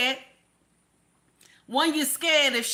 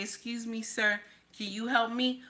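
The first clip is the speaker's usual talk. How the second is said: soft polite request; 6 dB quieter than usual. Retold or imitated. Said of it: "I say".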